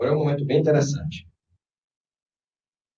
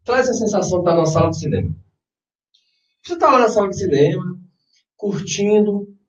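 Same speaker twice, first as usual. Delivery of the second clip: guided meditation. Acted. Leads a guided visualization.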